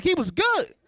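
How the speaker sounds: hammed-up excitement with a laugh; mock excited. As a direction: hype it up like a proud loser. Retold wake-up line.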